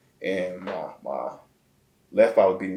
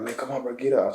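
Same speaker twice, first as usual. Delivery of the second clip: retold urging; 4 semitones higher than usual. Friend urging him to rise.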